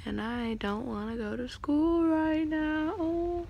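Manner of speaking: talking around a retainer; slightly lisped retainer speech; wearing a retainer. Real, not acted. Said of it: "with my retainer in".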